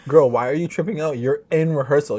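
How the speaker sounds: loud, exasperated telling-off building into laughter; mock scolding.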